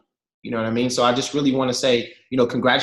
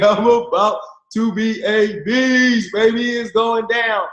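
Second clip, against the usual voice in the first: hyped up; 7 semitones higher, slower than usual. Retold or imitated. Hyped self-talk, repeated louder.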